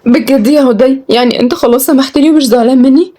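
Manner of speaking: high, hopeful questioning; relieved young woman seeking confirmation; hopeful delight. Acted. Forgiven after his love confession.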